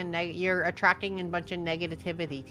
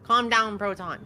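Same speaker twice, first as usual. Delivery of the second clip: calm down pushed louder; firmer, louder calm down to Proton; 6 dB louder than usual. Pretend. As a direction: raise it on calm. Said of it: "repeated calm down at Proton".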